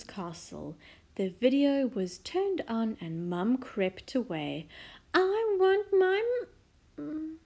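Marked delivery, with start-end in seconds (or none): 5.1-7.4 put-on high child's wail, cut off; starting to wail. A narrator's reading. Princess as mum creeps away, starting to wail. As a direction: start wailing, then break off short. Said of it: "began the little princess".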